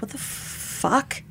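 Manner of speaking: breathless unvoiced whisper, slowed; slow shocked whisper; stunned whisper. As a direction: whisper it in disbelief, barely any voice. Shocked reaction during the assault.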